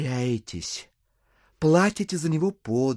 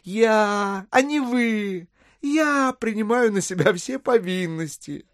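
higher-pitched, emphatic pleading argument; insistent persuasion; 6 semitones higher than usual. Acted. Buyer explaining to the widow he pays now, high insistence. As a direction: drive every point home, pitched up.

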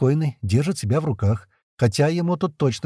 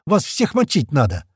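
yelled high and loud; shouting curses, pitched up and louder; furious shout; 8 semitones higher, 3 dB louder than usual. A narrator's reading. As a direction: roar it at the enemy. Слива yelling at enemies.

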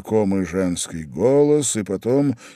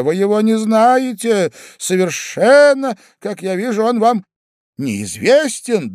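turning pale, unnerved; 11 semitones higher, 6 dB louder than usual. A narrator's reading. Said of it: "говорил господин в енотах бледнее".

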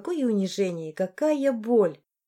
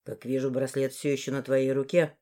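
lowered, sneering man; low disgusted man; 7 semitones lower, 3 dB quieter than usual. Acted. Morris sneers at the bracelet, low voice. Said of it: "скривился в отвращении".

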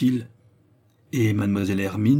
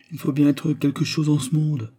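mock modesty; 6 semitones higher than usual. A narrator's reading. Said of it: "répondit modestement sir Williams".

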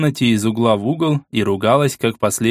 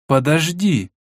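questioning; 5 semitones higher, slower than usual. Acted. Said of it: "вопросительно проговорила Фредерика".

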